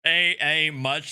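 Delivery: slow grinning mock drawl; smiling imitation. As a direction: repeat it back with a smirk. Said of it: "with a big-ass smile on his face".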